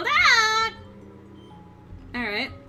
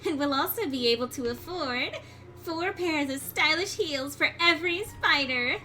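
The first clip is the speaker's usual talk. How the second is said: higher, sweet French-tinged spider lady; Muffet voice; 5 semitones higher than usual. Acted. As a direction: purr it like a dainty spider.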